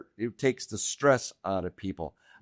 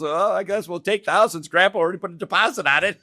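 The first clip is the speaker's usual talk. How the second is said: higher, louder, chuckling as he speaks; laughing through the quote; 6 semitones higher, 4 dB louder than usual. Retold or imitated. Retelling the husband's joke to the agent, laughing. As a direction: deliver the punchline while laughing.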